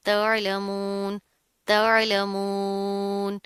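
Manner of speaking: तअलमून slowly, ain squeezed in the throat; clear ain. Shown as a demonstration. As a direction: open the ain in तअलमून, then stretch the ending. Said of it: "आइन की आवाज़ को वाज़िया करना". (तअलमून, आइन की आवाज़ वाज़ेह)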